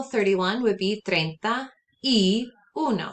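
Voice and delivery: "treinta y uno" spoken slowly and clearly; slow and clear example; slow model. Shown as a demonstration. Teacher gives a slow example for students. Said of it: "So for example".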